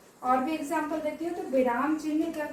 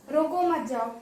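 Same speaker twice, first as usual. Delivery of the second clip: "रोको मत जाओ" run together unbroken; no pauses. Shown as a demonstration. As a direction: leave no break on either side of "मत". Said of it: "चिन्ह नहीं लगाया".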